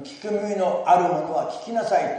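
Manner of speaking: loud proclamation. Acted. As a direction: announce it as Jesus' loud cry. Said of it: "とイエス様が大声で言っておられます".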